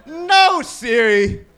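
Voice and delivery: exasperated mock shout at the phone; yell at Siri. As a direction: shout her down. Yelling at Siri.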